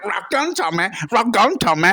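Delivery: lightly voiced comic catchphrase; Bobby Ball. Impressionist insisting to the stranger, light comedian impression. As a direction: toss out the catchphrase, pitch hopping. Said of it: "I went".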